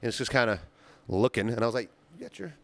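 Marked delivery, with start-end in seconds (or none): 2.2-2.5 very soft, higher retold aside; discreet undertone. Host retells asking his father discreetly, hushed. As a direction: slip it in under the radar.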